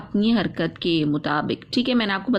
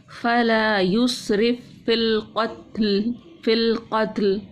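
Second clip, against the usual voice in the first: slow chanted recitation with doubled consonants; much slower than usual. Shown as a demonstration. Teacher reciting for pupils, stressing doubled letters slowly. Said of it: "फ़ा को इस वाली हमने नहीं पढ़ा".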